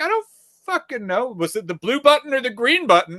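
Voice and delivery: high, mocking voice for the clerk; whiny parody of her questions. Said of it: "I'm like".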